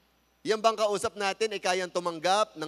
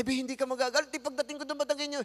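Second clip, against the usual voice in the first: retold scolding; 9 semitones higher, 4 dB louder, faster than usual. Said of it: "retold angry speech in Kalibo".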